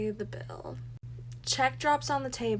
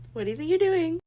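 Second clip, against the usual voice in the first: "What do you think you're doing?" again, even higher and louder; sharper repeat; 7 semitones higher, 6 dB louder, faster than usual. Retold or imitated. Repeating to the date who took her card, louder outrage. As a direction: press him harder, fully outraged now. Repeats the demand more strongly.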